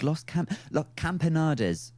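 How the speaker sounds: Spanish said in an English accent; anglicised Los Campanadas; Los Campanadas with English vowels; horribly English Spanish. Shown as a demonstration. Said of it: "I'm saying it in a horribly English way".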